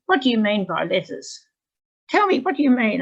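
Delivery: imitated angry demand, climbing high and loud. Angry student demands that her teacher explain the letters, angry. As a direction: act out a student insisting on an answer. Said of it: "she got really angry".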